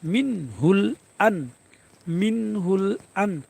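slow মিন হুল আন, each n clean; measured মিন হুল আন with distinct consonants; clear izhar. Shown as a demonstration. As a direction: sound the n of আন plainly, without ghunnah. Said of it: "ইজহারের কায়দা স্পষ্ট করে বলতে হবে".

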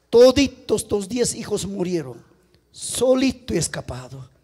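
low, softened report of deaths; grave bad news. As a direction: let the voice sink as you break it. Messenger breaks news of deaths. (en voz baja, con pesar)

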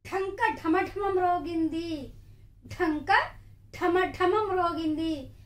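slow with each word spaced apart; slow dictation reading; dictation pace. Shown as a demonstration. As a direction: leave a finger gap between words as you say them. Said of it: "finger gap ఉండాలి".

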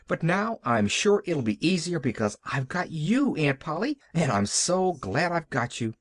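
lightly voiced earnest little girl; Pollyanna. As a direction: pour it out with a touch of childlike feeling. Child Pollyanna pours out her feelings.

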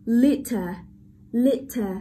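litter with LIT punched; strong LIT, short unstressed ending in litter; careful model of litter, weight up front; stress on first syllable. Shown as a demonstration. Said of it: "trọng âm rơi vào âm tiết đầu tiên".

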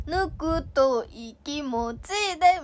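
"ぬくとい気持ちで" said very slowly, stretching ぬくとい; Nagoya word ぬくとい. Shown as a demonstration. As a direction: draw out "ぬくとい" syllable by syllable. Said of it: "ぬくといってなんか嫌じゃん".

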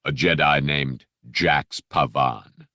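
low, smooth, polite threat; lightly voiced Dark Lord; silky menacing Vader. Vader dismissing the Jedi, silky and menacing. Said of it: "that silky, menacing voice".

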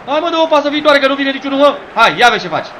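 high pleading call to a player; exasperated urging. Real, not acted. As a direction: nag loudly for a forward pass.

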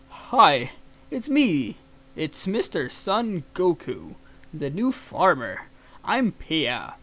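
upbeat, drawn-out greeting as the new farmer; goofy farmer voice. Pretend. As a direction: introduce yourself loudly and slowly. Voicing own farmer character.

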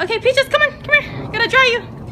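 high sing-song pet voice; dog-talk voice. Real, not acted. Calling dog again.

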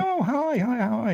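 high, bubbly mock greeting; delighted phone greeting. Actor friend answering the phone, delighted imitation.

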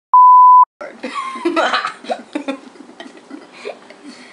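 very high, loud burst of laughter. Real, not acted. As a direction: explode into shrieking laughter.

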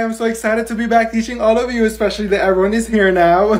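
high, loud cheerful teacher; peppy teacher. Acted. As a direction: greet the class brightly.

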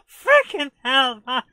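shouting through big laughs; laughing disbelief. Real, not acted. Gamer laughing loudly after arriving with no guns. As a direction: crack up at your own stupid mistake.

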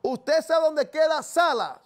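slowed down, every word spelled out for a caller who missed it; slow and clear. Real, not acted. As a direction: repeat it slowly and clearly. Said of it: "¿Cómo?".

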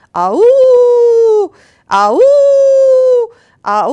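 loud, rising "a-oo" howls; long hound howl; dog howling. A narrator's reading. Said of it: "ekkor kutya is rázendített".

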